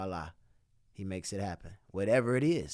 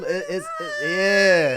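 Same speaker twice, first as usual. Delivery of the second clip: choked up; 6 semitones higher, 10 dB louder, slower than usual. Real, not acted. Emotional about money.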